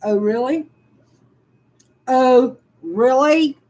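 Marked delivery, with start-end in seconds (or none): 2.1-3.6 sarcastic. Real, not acted. Answering the letter's accusation with slow sarcasm. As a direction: stretch out really, biting sarcasm.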